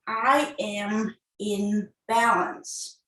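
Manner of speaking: slow, measured mantra; affirmation. Real, not acted. Yoga teacher giving the class its mantra, slow affirmation. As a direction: say it slowly, each word given room.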